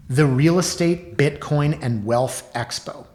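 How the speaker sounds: slow, grand title announcement; mock announcer. Host introducing the expo he mocks, grand announcer style. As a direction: pitch the opening up and draw out the name.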